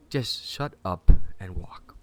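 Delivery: loud, slow, forceful command; stern order. Acted. Ordering Sarah to come along, stern order. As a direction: lay down each word firmly.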